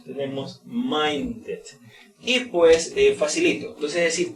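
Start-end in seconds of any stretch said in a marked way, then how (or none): 0.6-1.6 slow "minded" with the ending like "did"; "minded" drawn out for learners; extra-syllable ending. Shown as a demonstration. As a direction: model "minded" in two clear syllables. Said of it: "en T y en D se pronuncian como it".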